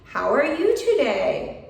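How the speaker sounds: "today" lifted as a question; question tune. Shown as a demonstration. Teacher showing learners how a question's pitch moves, question tune on "today". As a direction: raise the voice toward "today". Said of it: "my voice should go up at the end of the sentence".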